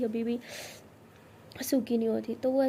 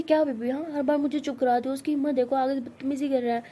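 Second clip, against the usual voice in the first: louder, heated protest; angry outburst; 4 dB louder than usual. Acted. Tara to Siya, furious the boy touched her, angry outburst. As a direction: snap back at being hushed.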